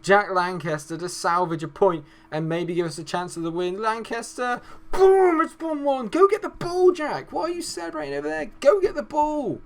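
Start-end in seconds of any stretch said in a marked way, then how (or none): 3.8-9.6 excited scream. Real, not acted. Equaliser scored, celebrating.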